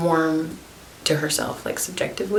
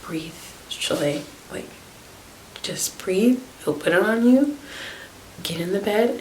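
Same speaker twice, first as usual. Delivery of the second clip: calming whisper; 2 semitones higher than usual. Retold or imitated. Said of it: "And I was like".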